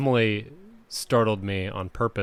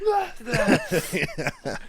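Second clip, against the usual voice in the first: mock sneeze; 11 semitones higher than usual. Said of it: "and then Dad sneezing".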